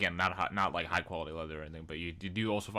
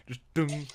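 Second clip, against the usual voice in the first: imitated clang; 7 semitones higher than usual. Imitating pot hitting a metal bell.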